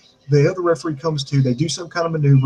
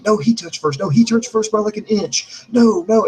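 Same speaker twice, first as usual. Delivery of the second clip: insistent arguing; 5 semitones higher than usual. Acted. Acts out argument over the replay.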